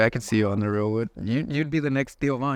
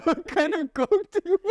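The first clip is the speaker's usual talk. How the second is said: mock Southern. Friend mimicking Alabama Coke question, hammed-up Southern accent. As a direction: play a cartoon Alabama waitress.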